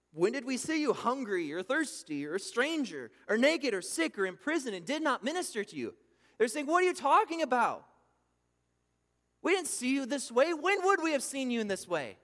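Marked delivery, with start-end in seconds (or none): 0.1-6.0 loud, higher, aggrieved question; hammed-up outraged goats; indignant protest. The cursed protesting to Jesus. 6.7-12.2 loud, high, affronted cry; mock outraged crowd; indignant outburst. The cursed protesting to Jesus.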